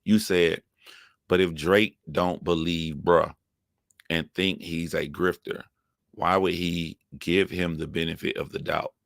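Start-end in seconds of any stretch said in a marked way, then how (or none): 1.3-8.9 low, slow, deliberate read-out. Real, not acted. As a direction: read it out slowly, in pieces, for someone to follow. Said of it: "I'm gonna read this slowly to you".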